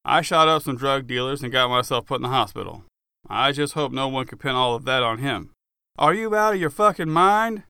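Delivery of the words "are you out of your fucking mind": higher, louder angry outburst; furious friend. Acted. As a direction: snap at him in disbelief. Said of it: "He was pissed".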